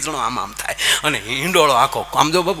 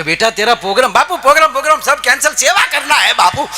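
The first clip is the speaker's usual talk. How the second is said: eager disciple; 8 semitones higher, 4 dB louder, faster than usual. Retold or imitated. Disciple eagerly cancels programs.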